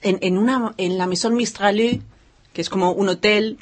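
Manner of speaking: put-on Spanish with a French accent; lightly put-on French accent. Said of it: "me parece bien que pongas acento francés".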